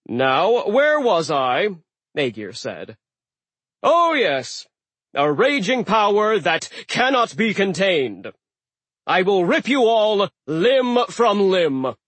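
loud, slow booming threat; resume the grand menace; threatening sea god. Acted.

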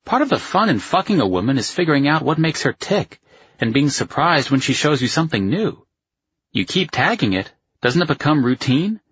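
high, swooping voice for the buddy; sceptical male friend. A narrator's reading. Voices the friend's long argument.

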